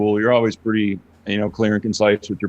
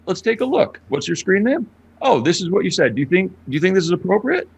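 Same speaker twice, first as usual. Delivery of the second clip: retold streamer scolding troll; 6 semitones higher than usual. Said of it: "And I'd be like".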